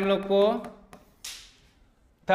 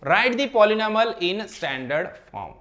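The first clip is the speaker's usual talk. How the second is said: slow reading; 2 semitones higher, much slower than usual. Shown as a demonstration. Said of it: "teacher reads the question aloud".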